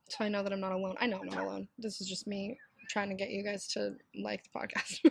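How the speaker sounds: raspy, like a pack-a-day smoker; rough raspy sick voice. Real, not acted. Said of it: "like, I smoke a pack a day sexy voice right now".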